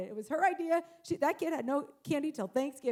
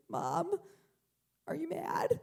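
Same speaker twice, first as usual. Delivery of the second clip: small, higher-pitched timid question; hushed, anxious child's voice; fearful child; 5 semitones higher than usual. Retold or imitated. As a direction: imitate a scared kid asking Mom, trailing into a whisper. Frightened, tearful child asks mother.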